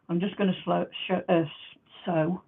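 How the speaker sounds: slurring around loose dentures. Real, not acted. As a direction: speak with teeth slipping loose. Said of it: "put my teeth back in".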